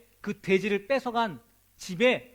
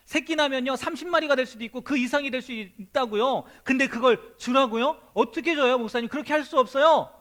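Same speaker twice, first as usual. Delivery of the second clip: loud, pleading objection rising higher; indignant protest; 5 semitones higher, 7 dB louder than usual. Acted. A believer protesting loudly to his pastor, indignant. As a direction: protest hard, you cannot believe this.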